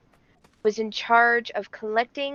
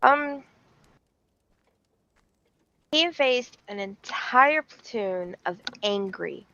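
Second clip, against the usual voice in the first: storyteller with suspenseful pauses; theatrical history storytelling; dramatic story narration. Acted. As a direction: spin it like a grand tale, pausing before reveals. Tells a history story to stream.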